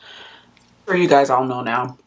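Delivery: chewing toast while talking; mouth full. Real, not acted. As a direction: talk through a mouthful of toast. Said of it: "Sorry, I'm chewing on toast".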